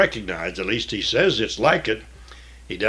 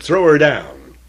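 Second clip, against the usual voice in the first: command; 5 semitones higher, 8 dB louder, slower than usual. Acted. Jehu commanding the eunuchs.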